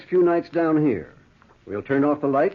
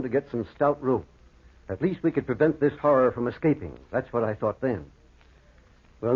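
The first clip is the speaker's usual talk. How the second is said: low, grave storytelling voice; story narration; 3 semitones lower than usual. A narrator's reading. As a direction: recount the horror gravely. Narrator recounts the horror.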